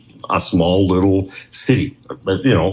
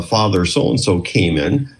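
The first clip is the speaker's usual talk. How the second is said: put-on slow, heavy Scottish accent; light Scottish lilt, slow. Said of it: "in his heavy Scottish accent".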